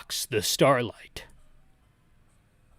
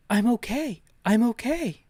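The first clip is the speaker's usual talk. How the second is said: put-on higher girl's voice, admittedly poor; bad Lucia voice; 6 semitones higher than usual. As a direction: try a young girl's voice and miss a little. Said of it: "I don't do a good Lucia voice".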